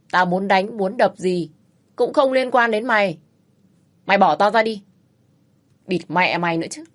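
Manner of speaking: bully and bluster though restrained; a hint of a domineering husband; arrogant bluster. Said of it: "cái giọng hách dịch".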